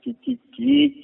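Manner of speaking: high-pitched little scratching noises of a pen; repeated short pen-scratch sounds; imitated pen scratching. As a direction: mimic a pen squeaking across paper. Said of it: "dégg xalimaam nga di sat, naan".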